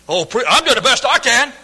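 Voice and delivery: sing-song mock protest; mock churchgoer. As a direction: parody a smug member defending himself. Mocking a complacent churchgoer.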